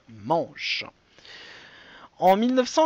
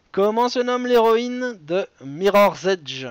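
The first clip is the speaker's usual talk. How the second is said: bad English accent; slower than usual. Real, not acted. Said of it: "Avec mon magnifique accent dégueulasse".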